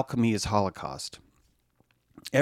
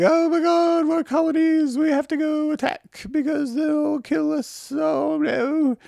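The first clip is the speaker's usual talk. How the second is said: much higher and louder mock-panic voice; hammed-up shrill British alarm; panicked British; 4 dB louder than usual. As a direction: squeal it like terrified colonists. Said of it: "And the British are like".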